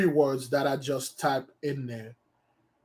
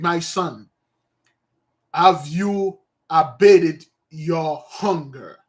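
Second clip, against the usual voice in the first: priest voice; 6 dB louder, slower than usual. Acted. Old high priest speaks to son.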